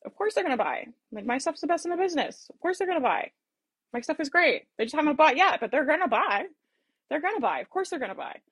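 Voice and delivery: upbeat confident belief; confident energy. Shown as a demonstration. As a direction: sell the certainty with excitement. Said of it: "that energy is very different than".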